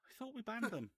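very high, put-on indignant voice; high-pitched mock bewilderment at ordinary volume; retold complaint to PR. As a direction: imitate a boss protesting in a high pitch. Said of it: "Turns back to the P R flag".

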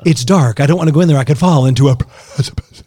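lightly voiced Ace Ventura; a hint of Ace Ventura; Ace Ventura impression. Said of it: "Ace Ventura".

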